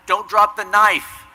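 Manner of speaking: high, loud, slow yell at the screen; screamed warning. Retold or imitated. Fan screaming at Jamie Lee Curtis on screen, loud. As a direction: scream it at the heroine.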